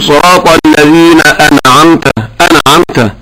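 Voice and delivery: أنعمت with a bounce on the noon; imitated noon error. Shown as a demonstration. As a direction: mimic a reciter breaking the noon loose in أنعمت. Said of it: "هذا هو نفس الخطأ الذي ذكرته".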